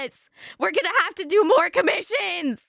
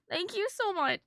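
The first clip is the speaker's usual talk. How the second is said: tearful; 2 semitones higher, 5 dB quieter than usual. Real, not acted. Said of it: "I'm gonna cry".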